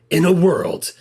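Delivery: lightly voiced trailer announcer, slow; a hint of slow trailer-guy delivery; movie trailer voice. Podcaster recalling the classic trailer line, lightly mock trailer voice. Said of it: "that guy's trailer voice".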